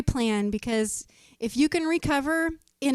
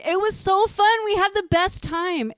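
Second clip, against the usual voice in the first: gushing excitedly; 7 semitones higher, 4 dB louder than usual. Retold or imitated. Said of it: "And they were like".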